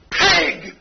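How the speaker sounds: mock angry yell. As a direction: yell it out the window like a mild insult. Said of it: "a woman yells out the window right at you".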